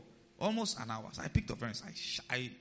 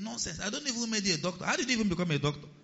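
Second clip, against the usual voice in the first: higher-pitched scolding, hurrying at the end; mock indignation; 6 semitones higher, faster than usual. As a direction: berate him without shouting. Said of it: "I expressed my anger".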